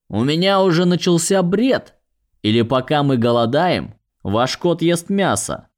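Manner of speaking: high, indignant fairy voice; indignant pixie. Acted. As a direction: squeal it in outrage. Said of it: "возмущённый голос фея".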